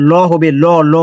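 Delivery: heavy Quranic ল, lips rounded. Shown as a demonstration. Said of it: "মোটা হইলে বাংলা".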